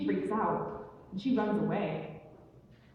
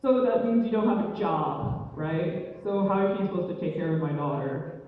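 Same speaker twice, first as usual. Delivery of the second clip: lightly voiced skeptical father; a hint of stern dad interrogation; disapproving dad. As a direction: grill your daughter's suitor. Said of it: "the dad was all like".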